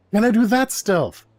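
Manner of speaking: squeaky-high hopeful asking; pleading question. Acted. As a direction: ask it high-pitched and insistent. Repeats acted question, higher.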